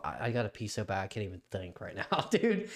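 urgent, fidgety and stumbling; needing to pee. Real, not acted. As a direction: talk while desperate for the bathroom. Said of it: "That's why I'm stuttering right now".

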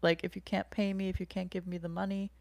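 lightly imitated calm, reassuring therapist. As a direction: gently reassure her, unhurried and easy. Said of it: "in a very calm voice".

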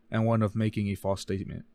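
running out of breath; trailing off breathless. Real, not acted. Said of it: "I ran out of breath".

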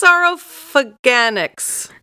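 Saurophaganax said slowly as a correction; corrected syllable emphasis. Shown as a demonstration. Co-host correcting the fossil name, Saurophaganax slowly sounded out. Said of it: "put the emphasis on the wrong syllable".

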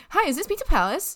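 a hint of a stranger phoning a pizza place; disguised prank caller voice. Prank calling a friend, lightly disguised voice. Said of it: "Just don't talk in your voi-, voice".

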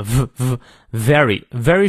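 exaggerated V sound starting "very"; buzzed V. Shown as a demonstration. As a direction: isolate a buzzing v, then slow "very". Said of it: "上排牙齿摩擦下排嘴唇".

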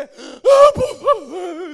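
very loud, high, slow plea; emphatic pleading. Shown as a demonstration. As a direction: beg with all your force. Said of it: "Pedir com muita ênfase". (clamor exagerado)

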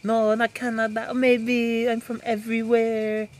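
high, slow, badly faked Irish; bad Irish accent. Co-host guessing-game demo, comically bad Irish accent. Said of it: "this is my Irish accent".

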